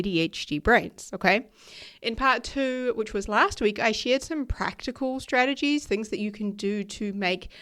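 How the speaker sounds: hoarse, nasal recovering voice; raspy nasal voice. Real, not acted. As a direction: talk through a raspy, stuffy throat. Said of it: "with a raspy, uh, nasally voice today".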